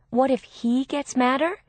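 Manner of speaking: indignant question with a rising end; incredulous echo. A narrator's reading. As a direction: throw her words back at her in disbelief. Sister throws worried question back.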